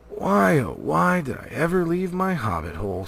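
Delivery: high, loud wailing hobbit; hobbit lament. A narrator's reading. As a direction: moan it like a jostled hobbit. Bilbo lamenting.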